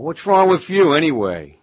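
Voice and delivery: imitating their loud, high-pitched scorn; incredulous neighbours. Townsfolk challenging anyone who did anything different, incredulous. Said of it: "they were going".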